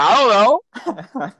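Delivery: put-on innocent girlfriend. Girlfriend answers his mom.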